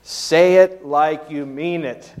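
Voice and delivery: firm parent correcting a half-hearted apology; insistent parent. Acted. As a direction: make the child apologize properly, word by word. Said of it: "parent has said this".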